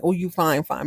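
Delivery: drawled slang "you fine, fine", flirty compliment; slangy flirty fine. Retold or imitated. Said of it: "fine as in not like".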